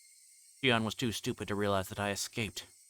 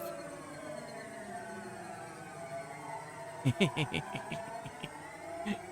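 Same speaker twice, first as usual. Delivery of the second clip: long high hysterical laugh; manic high laugh; 7 semitones higher, 6 dB quieter than usual. Acted. A killer cackling over her stabbed victim, high and manic. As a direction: laugh wildly after the stab.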